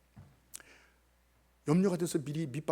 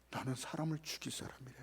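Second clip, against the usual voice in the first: hushed inner thought; 6 semitones lower, 15 dB quieter than usual. Retold or imitated. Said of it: "이런 생각을 했어요".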